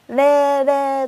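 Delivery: drawn-out imitation of Cantonese sounds; leisurely mock Cantonese. Shown as a demonstration. Showing the host how Cantonese sounds, in leisurely mock Cantonese. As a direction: stretch out nonsense Cantonese syllables. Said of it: "なんか、ゆっくりな感じ。".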